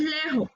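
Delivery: "lejos" as "lejo", no final s; "lejos" ending on an open o; mispronounced lejos. Shown as a demonstration. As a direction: drop the end s from "lejos". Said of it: "No es lejos".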